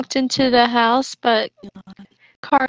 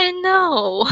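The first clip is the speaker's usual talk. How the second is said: laughing shout; 6 semitones higher than usual. Real, not acted. Laughing agreement at ugly-child line.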